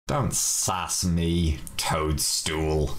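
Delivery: slow, mock-stern comeback; a touch of playful scolding, drawn out slowly; mock sass. Telling off the talking toadstool with slow mock sternness.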